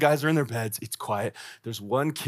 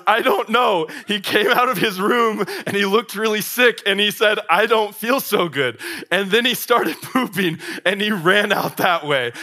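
put-on scared kid; 7 semitones higher, 5 dB louder than usual. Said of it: "fear in his voice".

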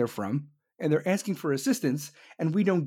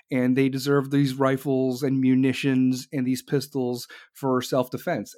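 mock Jen Psaki; 4 semitones lower than usual. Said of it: "Jen Psaki's like".

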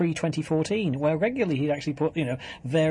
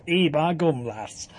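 put-on Yorkshire accent; slower than usual.

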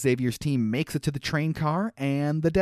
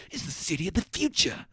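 stiff wooden line reading; flat, lifeless movie line; cardboard cutout delivery; 4 semitones higher, 3 dB quieter than usual. Retold or imitated. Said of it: "He delivers it like he's a cardboard cutout".

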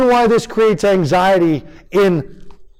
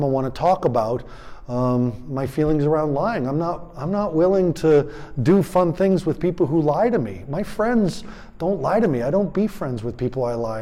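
put-on softer, calm talk to a child; calm parent talk; 2 semitones lower, 5 dB quieter than usual. Shown as a demonstration. Parent calmly telling a child about lying, quietly. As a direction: settle the voice and speak gently.

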